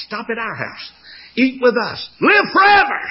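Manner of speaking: crowd calling out. Retold or imitated. Townspeople calling out to the passing king, rising shout. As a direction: beg him to stop, rising to a shout.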